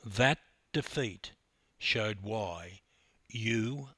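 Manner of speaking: hushed loving salute to Debbie; tender tribute. Real, not acted. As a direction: say it like a thank-you to her.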